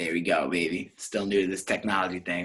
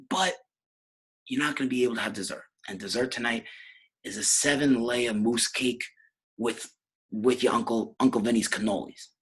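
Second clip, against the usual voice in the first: Nicky's ma; 4 semitones higher than usual. Acted. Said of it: "She goes".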